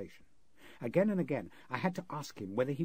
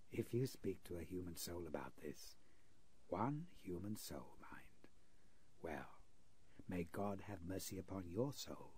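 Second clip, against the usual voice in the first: softer, menacing low warning; a sinister host warning the interpreter; quiet threat; 4 semitones lower, 10 dB quieter than usual. Acted. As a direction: threaten him almost pleasantly. Giggling man threatens the interpreter.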